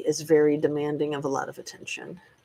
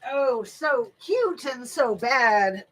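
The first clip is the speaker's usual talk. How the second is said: higher, drawn-out coo; cooing at a puppy; 6 semitones higher, slower than usual. Real, not acted. Owner fusses over her naughty puppy, slow high cooing.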